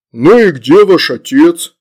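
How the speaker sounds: irritated. A narrator's reading. Demon baby demands the girls' father, irritated. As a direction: ask with irritation, drawn out and loud. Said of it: "раздражённо осмотрелся и спросил".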